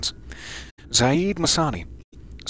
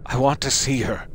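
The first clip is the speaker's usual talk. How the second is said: second try at grief. Shown as a demonstration. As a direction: try the mother's plea again, reined in. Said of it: "Let me try that again".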